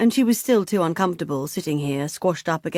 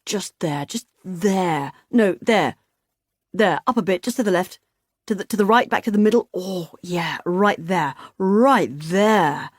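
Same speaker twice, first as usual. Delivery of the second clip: rising, louder pleading directions; blissful directions; 3 dB louder than usual. Acted. Bill steering Beth's scratching, eager and rising. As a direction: guide her fingers eagerly.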